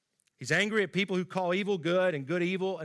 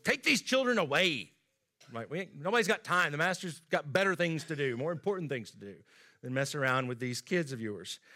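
dismissive disciples. Retold or imitated. Disciples turning parents away, dismissive and brusque. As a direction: shoo the kids away like bodyguards.

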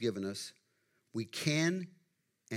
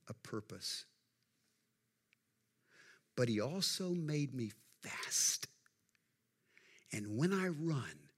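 earnest Eric; slower than usual. Retold or imitated. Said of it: "He said to his sister".

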